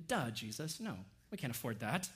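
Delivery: acted-out sarcastic "duh". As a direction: brush off a silly question. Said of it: "the sarcasm that we see here in the disciples".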